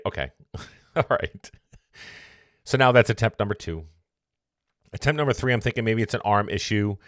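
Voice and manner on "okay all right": resigned laugh. Retold or imitated. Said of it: "And I say".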